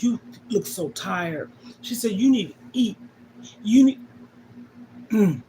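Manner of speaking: quiet, breaking into tears; tearful. Real, not acted. Grandmother retells granddaughter's care, tearful. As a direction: voice fails into a sob.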